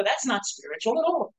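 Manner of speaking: slow, mocking disappointed scoff; dismissive skeptic. Pastor mocking people who find helps unspiritual, slow and scoffing. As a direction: sneer at how dull it is. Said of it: "Most people would look at this and go".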